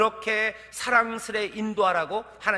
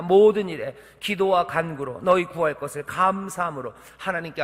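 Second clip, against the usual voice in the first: scripture reading; 5 semitones lower than usual. Acted. Scripture recitation.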